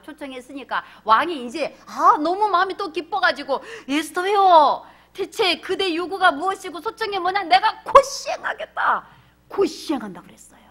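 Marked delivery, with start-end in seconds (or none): 3.9-9.1 loud, lordly king granting a wish; a hint of a booming king; king's voice. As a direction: play the generous king. King voiced in retold story.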